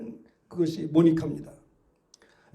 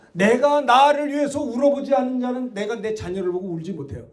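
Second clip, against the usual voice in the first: ordinary talk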